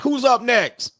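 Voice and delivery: high, impatient mock call; pissed-off judge. Retold judge calling the next case, pissed. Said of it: "'cause he was pissed".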